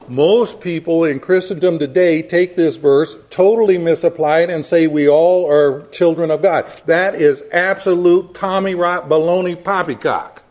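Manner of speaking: loud, scornful blustering rant. Acted. Preacher scorning a misreading.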